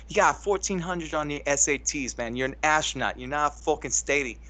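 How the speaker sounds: put-on brisk, half-successful Boston accent; bad Boston accent. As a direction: rattle it off in a clumsy Boston accent. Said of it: "I can't do the Boston accent".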